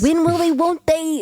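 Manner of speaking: high sing-song taunt with a laugh; laughing high will-they-won't-they; teasing singsong. Pretend. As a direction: join in the schoolyard tease. Joining the teasing chant.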